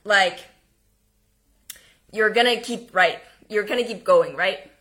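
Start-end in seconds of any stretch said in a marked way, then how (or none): 2.1-4.7 hesitant, searching, restarting the phrase; tentative, unsure encouragement; uncertain. Shown as a demonstration. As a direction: say it as if you doubt it. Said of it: "if you want to say something, like".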